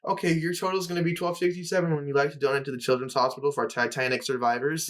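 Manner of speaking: lightly imitated cashier patter; Panda Express cashier. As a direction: recite it like a cashier's scripted ask. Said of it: "When you go to Panda Express".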